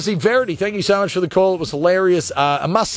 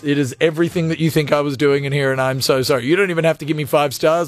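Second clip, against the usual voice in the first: lightly acted mortified apology, lower pitch; mock apologetic driver; 4 semitones lower than usual. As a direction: play the driver owning up, low and contrite. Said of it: "be like, "It's exactly what".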